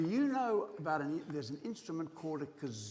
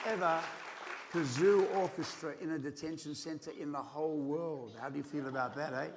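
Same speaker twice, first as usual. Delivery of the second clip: upbeat showman host; animal show trainer. Acted. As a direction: hype up the kids. Hosting the kazoo orchestra kids.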